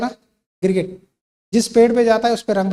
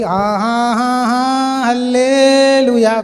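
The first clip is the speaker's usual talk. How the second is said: rising, louder, stretched-out hallelujah; mock joyful welcome; 4 semitones higher, 6 dB louder, much slower than usual. Preacher imagining disciples cheering the risen Lord, stretched hallelujah. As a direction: ham up an overjoyed greeting.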